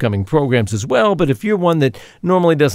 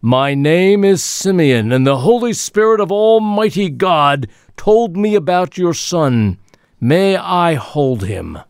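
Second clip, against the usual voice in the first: put-on elderly prophet; 4 semitones higher, slower than usual. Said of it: "Simeon speaking in skit".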